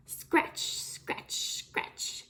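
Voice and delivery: hushed, breathy sound word; whispered scratch. Acted. Teacher whispering the chicken's scratching to the class. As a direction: let it fade to a whisper.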